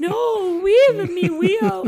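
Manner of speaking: high, loud mock wail of a toddler; crying toddler. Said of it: "he starts bawling".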